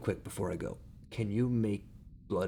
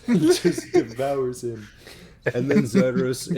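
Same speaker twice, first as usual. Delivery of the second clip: slow dramatic narration; 5 semitones higher, 7 dB louder, slower than usual. A narrator's reading.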